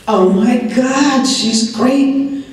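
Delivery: high, drawn-out relived amazement; slow, high-pitched retold delight; delighted discovery. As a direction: replay your thrilled relief, pitched well up. Reliving relief at finding the voice.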